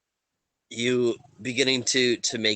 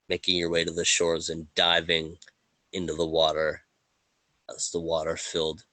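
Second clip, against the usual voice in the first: measured storytelling with dramatic pauses; unhurried scene-setting, phrase by phrase; game master narration; 3 semitones lower than usual. Acted. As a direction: narrate the scene gravely in a slightly lowered voice. Game master sets drowning scene.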